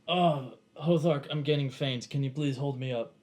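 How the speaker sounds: put-on feeble old man begging for support; old man weak thing. Frail old man asks Hothark to hold him up, feigning faintness. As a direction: play a faint, frail old man leaning on his helper. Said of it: "like, a old man weak thing".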